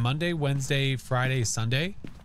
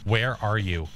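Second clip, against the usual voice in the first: calling out to a ghost. Real, not acted. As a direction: beckon the ghost, voice carrying through the house.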